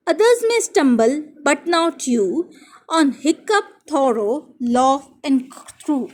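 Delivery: very slow, careful reading aloud; slow poem reading. Shown as a demonstration. Teacher reading the next poem lines to pupils, slowly. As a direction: read each word out slowly and clearly. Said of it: "teacher reading poem to class".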